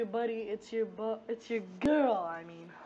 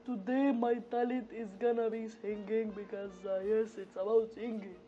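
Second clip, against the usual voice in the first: Breach voice; 5 dB louder than usual. Acted. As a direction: pitch way up as a cocky Breach. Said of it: "it's your boy Breach here".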